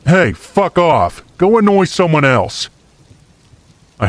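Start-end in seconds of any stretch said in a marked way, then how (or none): 0.1-2.7 irritated yell. A narrator's reading. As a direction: yell it out, fed up, pitch jumping up. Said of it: "I had enough and yelled out".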